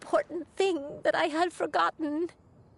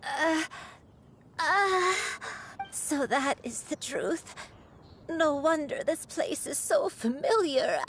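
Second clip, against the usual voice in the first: choked up; 3 semitones higher than usual. Acted. Granny recovering painful memories.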